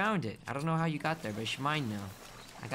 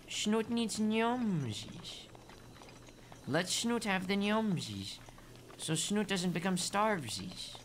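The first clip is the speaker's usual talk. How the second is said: put-on slow, drawn-out baby-talk begging; cutesy pleading; 4 dB quieter, slower than usual. Player begging food for Snoot, playful cutesy pleading. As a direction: wheedle playfully for a treat.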